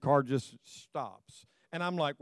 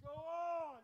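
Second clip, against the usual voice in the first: shrill urging; 11 semitones higher, 16 dB quieter than usual. Shown as a demonstration. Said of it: "And you don't say it that, you say".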